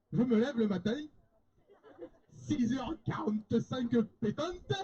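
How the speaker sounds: put-on Marseille accent, lively storytelling. Contestant recounting a typical day on request, Marseille accent. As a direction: play it up as a Marseille local. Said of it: "Allez, bah, l'accent marseillais".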